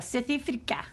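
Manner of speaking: South Africa said in a broad Afrikaans accent; vowels flattened in an Afrikaans accent, South Africa. Shown as a demonstration.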